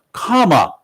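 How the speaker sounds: comma said slowly as KAH-muh, like the punctuation mark; slow demo word. Shown as a demonstration. Caller spells out the candidate's name, slow comma. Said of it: "she explained how to pronounce it".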